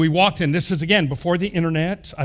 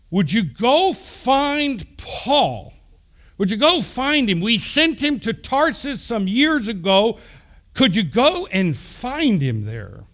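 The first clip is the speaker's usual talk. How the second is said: higher-pitched, drawn-out appeal, easing at the end; urgent request; 5 semitones higher, slower than usual. Retold or imitated. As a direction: plead with him to go find Paul. Acted request from the church at Antioch.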